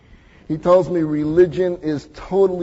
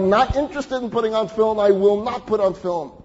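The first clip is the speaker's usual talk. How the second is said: firm refusal; 5 semitones higher, 4 dB louder, faster than usual. Retold or imitated. Man firmly refuses the rabbi.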